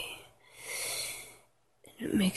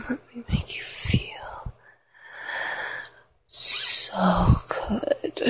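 whispered pleading; 2 semitones higher than usual. Acted. Lover begging into a partner's ear, whispered pleading. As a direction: beg in a whisper, breathing between phrases. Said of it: "pleading for you".

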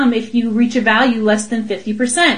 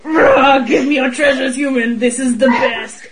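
dragon roar. Pretend. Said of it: "Do you like my recreation of it".

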